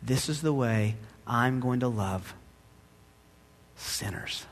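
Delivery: a gentle, hushed voice of God, fading almost to a whisper on sinners; calm quiet refusal; God speaking softly. Acted. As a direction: speak as God, low and quiet, holding back the angels. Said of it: "And God said".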